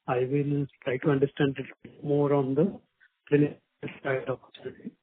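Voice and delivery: muffled, like a hand over the mouth. Real, not acted. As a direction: speak through a covered mouthpiece. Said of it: "you know, sounding muffled".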